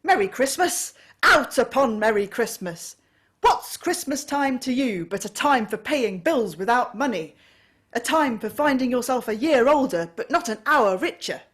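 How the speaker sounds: loud, high furious tirade; angry rant. A narrator's reading. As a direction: rail against Christmas with mounting rage. Scrooge rants at nephew.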